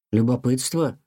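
puzzled questioning echo; a mildly surprised question; young cat puzzled by his mother's word, mildly surprised. Acted. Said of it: "удивился Тихон".

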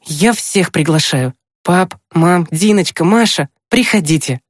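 put-on high boy's voice calling the family; inviting boy. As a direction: invite each relative in a high, eager voice. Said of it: "сказал Тимкин". (приглашение высоким мальчишеским голосом)

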